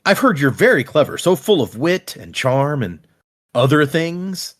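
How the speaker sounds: sarcastic. Retold or imitated. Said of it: "she does this sarcastic".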